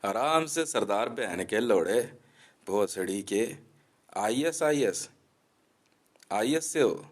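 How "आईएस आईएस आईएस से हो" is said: mocking mimicry. Mimicking the Sikh man's claim.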